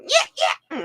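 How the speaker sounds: high yelled shoo; high mock holler at a coyote; shooing call. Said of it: "I'm going".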